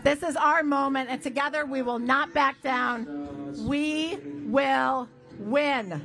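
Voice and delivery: rousing speech to a crowd; rally speech. Real, not acted. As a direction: fire up the crowd.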